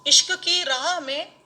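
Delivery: measured mushaira verse delivery; ghazal recitation. Acted. (मुशायरे में ग़ज़ल पढ़ने का अंदाज़)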